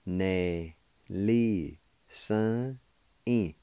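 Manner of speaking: Ne-li- Sun in, each part set apart; broken into syllables. Shown as a demonstration. Teacher splitting the word for learners, syllable by syllable. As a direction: split Ne-li- Sun in into separate chunks. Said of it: "And it's pronounced like this".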